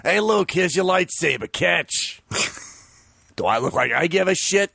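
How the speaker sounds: lightly voiced droid character. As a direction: play a sassy droid, barely changed. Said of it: "new voice of R two D two".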